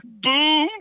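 high, loud mock battle yell; hammed-up shout of boom. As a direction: bark it out like a badass. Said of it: "I yelled".

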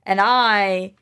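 self-declaring Max, building to a push; Max proclaiming. Acted. Player as Max claims the power, proclaiming. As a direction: declare yourself the one true Max. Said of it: "Max is like".

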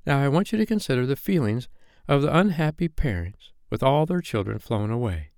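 lightly voiced Wendy addressing children; Wendy telling a story. Wendy asking the boys to consider parents, storytelling.

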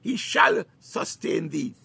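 slow, emphatic "shall"; stress on "shall". Real, not acted. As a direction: draw out "shall" with firm certainty. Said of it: "not he may".

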